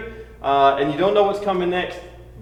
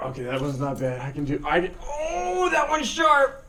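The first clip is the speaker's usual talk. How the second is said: biting down on pain; 5 dB quieter than usual. Real, not acted. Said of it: "I'm in so much pain right now".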